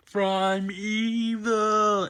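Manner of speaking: very high, stretched mock wail; hammed-up terrified cry, held long; Aunt May. Old lady finishing her prayer under attack, high mock wail. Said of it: "Aunt May's like".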